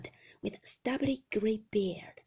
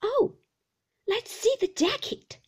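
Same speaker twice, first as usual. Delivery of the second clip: put-on high, loud, whining old shopkeeper; fierce, high-pitched old man; old man's cry; 12 semitones higher, 7 dB louder than usual. A narrator's reading. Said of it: "cried the old man".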